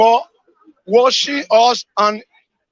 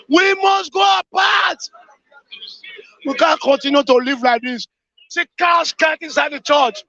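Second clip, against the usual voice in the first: grieving, outraged shouting at the nation; anguished shout. Real, not acted. Caller mourning the church massacre, shouting in anguish. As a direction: cry out in grief and anger at the killings.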